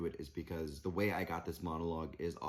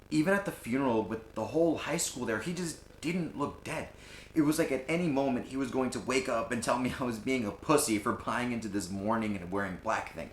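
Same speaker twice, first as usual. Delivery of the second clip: higher, pressing, incredulous grief; acted upset, pitched up; agitated disbelief; 5 semitones higher, 3 dB louder than usual. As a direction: build in a rush of disbelief, then ease off. Acted monologue, disbelief at the funeral.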